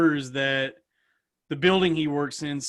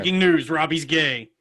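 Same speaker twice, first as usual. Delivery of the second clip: loud mock bulletin opener; mock news flash; 6 dB louder than usual. Friend interrupting with gossip about Robbie, mock news flash. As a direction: announce it like breaking news.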